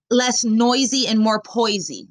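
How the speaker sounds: slow, deliberate quote of the catchphrase; slow, measured quote; quoting slowly. Retold or imitated. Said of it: "He claims that he's".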